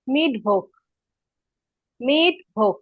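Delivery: মিটভোগ as German Mittwoch, mit-vokh; German Wednesday. Shown as a demonstration. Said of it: "উচ্চারণ করে দেই".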